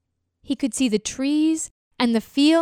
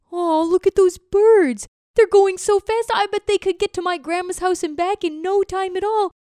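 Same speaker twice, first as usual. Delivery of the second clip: higher and louder, marvelling at the birds; excited turtle; 5 semitones higher, 3 dB louder than usual. Acted. Turtle watching birds overhead, awed and longing. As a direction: gaze up in awe and longing.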